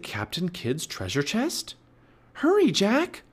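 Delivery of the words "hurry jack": very high, loud urgent call; Annie crying out. A narrator's reading. Girl on the ladder calling the boy, high and urgent. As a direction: call down to hurry him. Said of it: "cried Annie".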